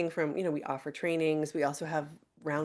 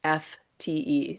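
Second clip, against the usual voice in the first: over enunciating. Shown as a demonstration. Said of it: "say it one more time slowly".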